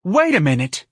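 loud, high director's cry; theatrical screamed interruption. A narrator's reading. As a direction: cry out to halt everything. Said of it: "Lana screamed".

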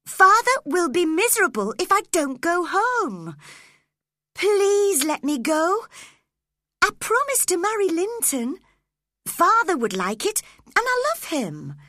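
put-on girl begging her captor to let her go home, desperate. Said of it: "begged Cathy".

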